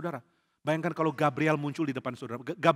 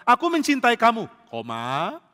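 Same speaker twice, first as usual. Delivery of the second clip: conditional love; 3 semitones higher, 5 dB louder than usual. Shown as a demonstration. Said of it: "Jangan pakai koma".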